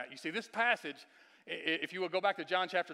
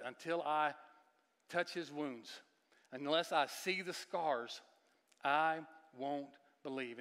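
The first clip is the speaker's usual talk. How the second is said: doubting Thomas; slower than usual. Retold or imitated. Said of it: "these very words that Thomas said".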